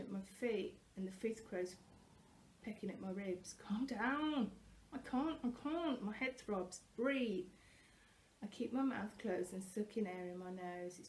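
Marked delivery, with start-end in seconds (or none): 3.5-6.0 higher, louder panicked cries; panicked shouting. A narrator's reading. Panicked exchange with Thor. 6.9-7.5 shouted command. A narrator's reading. Thor orders her to breathe.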